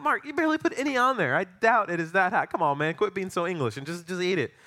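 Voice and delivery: lightly hammed-up scolding of a pal; mock exasperation. Retelling himself chiding English friend over sauce, mock exasperated.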